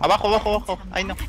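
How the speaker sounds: combat callout. Real, not acted. Urgent callout to teammates.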